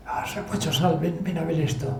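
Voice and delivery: soft, half-whispered call to a sleeping friend; hushed wake-up call. Retold or imitated. Waking his sleeping crewmate at dawn to see the island, hushed. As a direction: murmur him awake without startling him.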